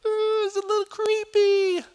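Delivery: high, loud spooky ooh. Acted. Telling his congregation about the dark backyard, spooky ooh. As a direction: make the backyard sound creepy.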